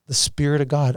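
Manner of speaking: a husband crying as he tells of his wife's last days. Real, not acted. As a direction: voice catching in tears. Man breaking down over dying wife.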